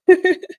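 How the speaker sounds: short high burst of laughter; bright laugh. Real, not acted. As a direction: laugh out loud, amused. Laughs at own channel name.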